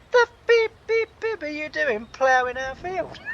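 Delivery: farmer bellowing it high and loud; angry shout. Retold or imitated. Farmer catching a stranger ploughing his field, furious shout. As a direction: yell it at the stranger on your land.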